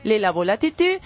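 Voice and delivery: put-on Spanish with a French accent. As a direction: play a fussy French hairdresser. Comic French hairdresser character.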